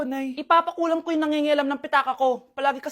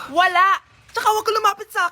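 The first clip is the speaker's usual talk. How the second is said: rude shout; 3 semitones higher, 4 dB louder than usual. Acted. Girl snaps again.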